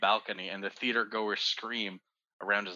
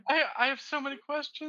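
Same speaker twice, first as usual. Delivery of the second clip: after laughing hard; 14 semitones higher than usual. Real, not acted. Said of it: "I'm literally dehydrated from laughing".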